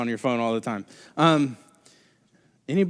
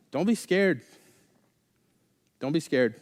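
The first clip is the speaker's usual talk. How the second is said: monotone calm prophet; 5 dB quieter than usual. Retold or imitated. Elisha calming his terrified servant, monotone. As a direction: say it as if nothing is wrong. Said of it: "really monotone voice".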